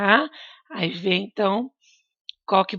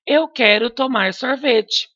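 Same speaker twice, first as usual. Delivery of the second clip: firm statement, higher and louder; statement tune; 4 semitones higher, 4 dB louder than usual. Shown as a demonstration. Teacher models an affirmative sentence ending in a full stop. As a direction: say it as a clear affirmation. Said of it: "eu vou fazer uma afirmação".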